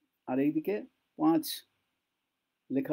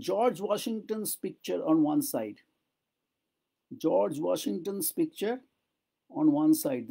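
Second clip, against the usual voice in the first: slow dictation; much slower than usual. Shown as a demonstration. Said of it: "slow model sentence for learners".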